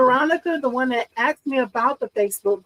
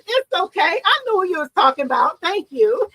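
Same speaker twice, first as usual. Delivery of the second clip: high, laughing it's okay; giggly reassurance; 6 semitones higher than usual. Real, not acted. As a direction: laugh it off kindly.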